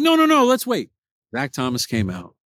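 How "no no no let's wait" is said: lightly voiced buddy begging to stay; insistent friend. Friend urging him to keep waiting, insistent.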